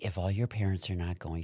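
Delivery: lightly voiced Chicago accent; soft Midwestern imitation; Sister Terry. Aunt volunteering to attend, Chicago accent. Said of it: "she's from Chicago".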